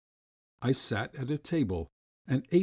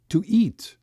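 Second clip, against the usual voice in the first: higher and louder, bursting out; the hunger breaks through; desperate craving; 9 semitones higher, 7 dB louder than usual. A narrator's reading. Starving boy craving food, voice rising.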